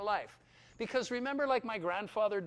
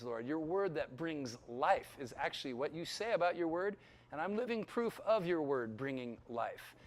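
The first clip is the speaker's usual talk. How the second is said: fervent pastor's prayer, rising and falling; earnest prayer; 3 semitones lower than usual. Acted. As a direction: pray over the students with heart. Closing prayer over students.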